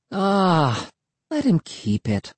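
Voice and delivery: high, light sister voice; sister calling out. A narrator's reading. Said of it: "Emily called from the house".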